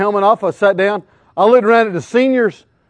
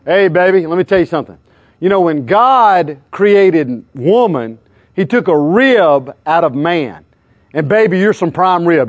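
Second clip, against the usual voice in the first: mock pickup line; 3 semitones lower than usual. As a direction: lay it on like a cheesy flirt. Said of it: "I tried to use Christian lines on her".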